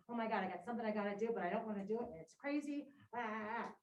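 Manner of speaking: a quick, mock-panicked rush of words; hammed-up flap of a nervous guard; flustered panic. Teacher imitating the panicked sentry for the class, quick and mock-flustered. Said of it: "This guy going".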